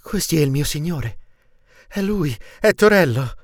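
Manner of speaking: high, rising cry of recognition; excited exclamation, pitched well up; astonished cry. A narrator's reading. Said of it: "gridò".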